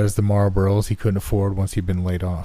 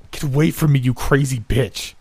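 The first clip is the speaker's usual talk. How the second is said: triumphant shout; 6 semitones higher than usual. Acted. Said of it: "I triumphantly shouted".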